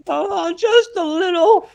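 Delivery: very high, slow squeak; mock sheepish. Man admits too much blood in a high squeak. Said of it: "He goes".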